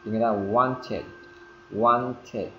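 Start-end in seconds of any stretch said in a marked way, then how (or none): 0.3-1.0 "wanted" as two syllables, "wan-tid"; inserted vowel. Shown as a demonstration. Teacher giving learners the corrected form, inserted vowel. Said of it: "với ing vào đằng sau là want". 1.7-2.5 "wanted" as "wan-tid", falling; inserted vowel. Shown as a demonstration. Teacher repeating the corrected word, inserted vowel. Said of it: "Chèn cái đi vào".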